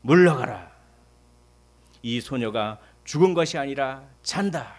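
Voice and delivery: loud, slow declaration; loud demonstrated proclamation; proclaiming shout. Shown as a demonstration. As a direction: shout it as a model for the congregation. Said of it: "이렇게 외치십시오".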